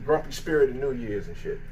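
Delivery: low, slow grumpy growl; grumpy spirit voice. Pretend. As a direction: play a sulky little spirit. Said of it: "little spirit".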